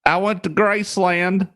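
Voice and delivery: high, slow white-guy impression; lightly voiced white guy. Joking about being overdubbed, high slow white-guy voice. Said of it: "like, some white guy".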